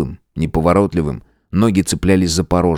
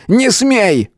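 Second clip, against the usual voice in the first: high desperate cry; shouting. A narrator's reading. Matvey shouts at Eugene not to die. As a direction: forbid it with a cry. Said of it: "крикнул Матвей".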